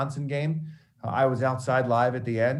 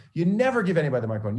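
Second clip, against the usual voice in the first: mock scolding; 6 semitones higher, much faster than usual. Mentor repeats rule.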